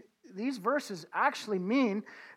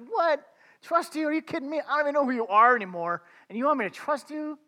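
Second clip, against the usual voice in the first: incredulous protest; 5 semitones higher, faster than usual. Retold or imitated. Preacher retells arguing with God.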